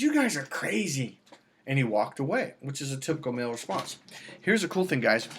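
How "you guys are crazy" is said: slower, dismissive man; mock exasperated man. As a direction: wave them off slowly.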